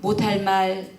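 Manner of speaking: put-on slow, high, trembling old mother's plea; a hint of a frail old mother, slow and high; tearful old mother. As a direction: speak as a dying mother asking forgiveness, nearly singing. Dying mother thanks daughter-in-law.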